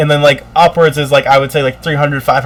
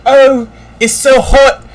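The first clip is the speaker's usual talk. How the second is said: whiny mock complaint; 5 semitones higher than usual. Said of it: "They're mad about it".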